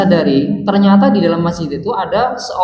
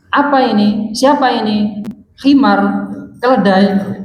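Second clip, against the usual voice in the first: mock loud rebuke; 6 semitones higher than usual. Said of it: "ngomongnya itu keras".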